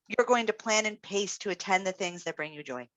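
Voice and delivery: said as a flat statement, falling at the end, no question rise; firm statement. Shown as a demonstration. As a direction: state it, don't ask it. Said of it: "I say it as a statement".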